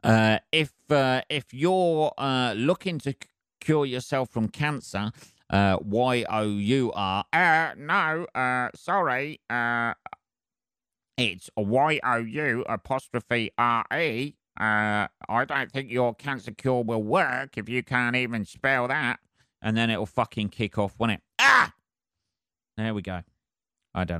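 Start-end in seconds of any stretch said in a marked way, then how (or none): 0.0-19.2 mock pedant voice. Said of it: "And they'll say". 21.4-21.7 high, loud startled yelp; sudden yelp. Real, not acted.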